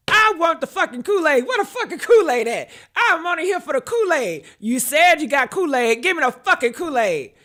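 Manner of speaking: hammed-up greedy guest shouting; mock yelling guest. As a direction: yell for the Kool-Aid like a rude guest, half laughing. Voicing guest screaming for Kool-Aid.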